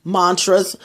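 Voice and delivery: "mantras" with a broad AH; "mantras", first syllable opened to "mahn"; other people's pronunciation. Shown as a demonstration. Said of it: "Some people say mantras".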